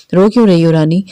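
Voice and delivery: mildly coaxing question; gently cajole, understated. A narrator's reading. Two men asking a crying girl why, mildly coaxing. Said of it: "دونوں نے پچکارتے پوچھا".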